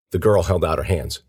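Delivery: plain reading voice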